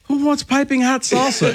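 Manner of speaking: high, laughing retelling of his own line. Retold or imitated. Cohost replaying what he said about hot salsa, high and laughing. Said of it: "It was like".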